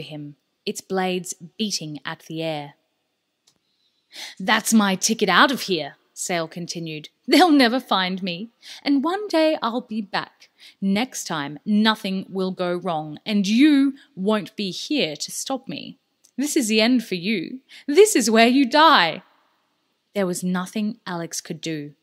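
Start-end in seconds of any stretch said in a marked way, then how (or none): 4.4-6.0 louder, triumphant boast; gloating villain. Acted. Sale boasting to Alex about his helicopter, loud. 7.3-19.2 loud, rising threat that builds to a shout; menacing villain. Acted. Sale threatening Alex before he fires, building loud.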